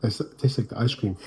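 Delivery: breathy ASMR-like whisper; whispering over a crib. Real, not acted. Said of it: "you sound like you're doing A S M R".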